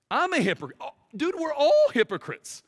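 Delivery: we're all in it, shout it out; rising preacher shout. Real, not acted. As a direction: build it up to a cry of confession. Preacher building to confession.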